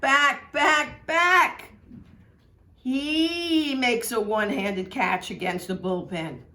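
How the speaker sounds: put-on an old-time announcer rising to a home-run pitch, then easing off on the catch; excited radio play-by-play, climbing up and up; Red Barber's radio call. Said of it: "And here's Red".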